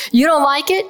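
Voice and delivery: a light hint of a Brooklyn accent. Physicist quoting Feynman to the audience, light Brooklyn accent. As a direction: quote Feynman with a touch of Brooklyn. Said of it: "imagine this in his Brooklyn accent".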